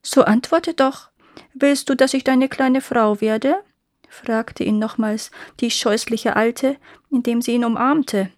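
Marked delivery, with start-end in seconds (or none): 0.0-3.6 lightly voiced witch pressing for an answer; a hint of an impatient crone; pushy old witch.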